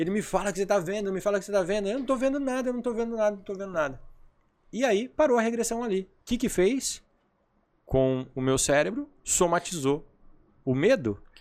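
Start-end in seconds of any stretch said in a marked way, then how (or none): 1.9-4.0 put-on exasperated frustration, fast, high, repeated. Retelling his regression session, telling the man he sees nothing, retelling frustrated protest. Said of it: "E eu frustrado".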